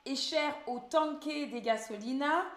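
Spanish read with a French accent; real French accent on Spanish words. Real, not acted. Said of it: "Désolée pour mon accent".

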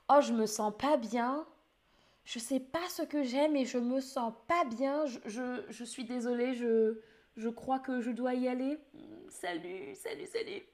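mock sick voice, fading weakly; pretending to be sick. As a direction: play sick, trailing off. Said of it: "Tu dis que tu es malade".

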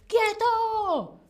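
high, loud mock police "¡Quieto!"; imitating a policeman; police command. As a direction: bark it like a cop stopping a thief. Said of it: "la policía dice".

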